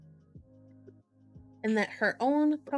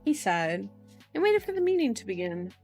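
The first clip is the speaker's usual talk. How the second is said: lively audiobook read with emphatic key words; louder, higher narrator's delivery; animated story narration; 3 semitones higher, 4 dB louder, faster than usual. A narrator's reading. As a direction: read the chapter's closing lines with drama. Reads novel aloud to audience.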